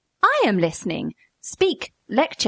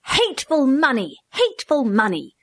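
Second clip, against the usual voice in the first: despairing cry; 5 semitones higher than usual. A narrator's reading. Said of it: "cried F, the economist, despairingly".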